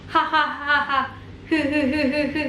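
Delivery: a light, written-style laugh read out; mock laugh. Shown as a demonstration. Teacher reading Korean text laughter, light mock laugh. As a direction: say the laughs as syllables. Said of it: "pakai ha ini buat ketawa".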